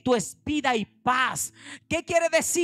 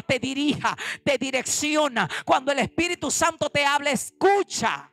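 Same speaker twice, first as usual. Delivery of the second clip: louder, driving pulpit warning; fervent preaching; 4 dB louder than usual. Acted. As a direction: preach it hard to the congregation. Preaching at full force.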